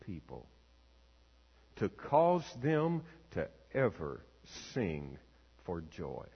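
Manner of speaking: measured prayer with long pauses; pastoral prayer. Real, not acted. Pastor prays over the congregation before preaching, reverent and unhurried. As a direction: pray aloud reverently, pausing between phrases.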